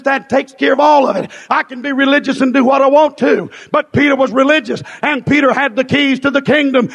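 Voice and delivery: fervent, driving revival sermon; fiery pulpit proclamation; full-force preaching. Real, not acted.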